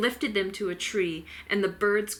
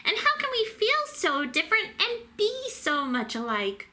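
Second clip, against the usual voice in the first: wondered; 13 semitones higher than usual. A narrator's reading. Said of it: "wondered Pip".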